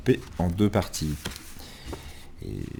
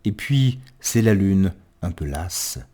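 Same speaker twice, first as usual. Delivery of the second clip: poem recitation. Acted. Reader describing sun and moon at a window, understated poetic recitation. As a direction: let the last line fade away.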